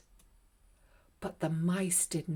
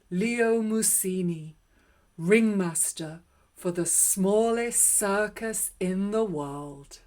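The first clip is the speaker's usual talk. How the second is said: proud announcement; 4 dB louder than usual. Acted. Leo announces his new title.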